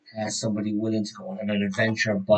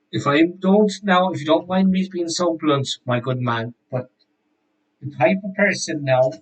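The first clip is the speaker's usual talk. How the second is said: higher, louder mock-polite warning; blunt townsman; 3 semitones higher, 3 dB louder than usual. Shopkeeper's contact warns the player off the inn, higher and louder. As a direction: talk down to him with a sly warning. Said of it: "And he goes".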